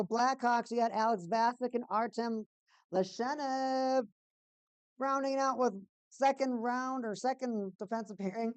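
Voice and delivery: announcer-style roll call of names; lineup announcer. Real, not acted. Streamer presenting the Blackhawks lines, announcer style. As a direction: read the lineup like an arena announcer.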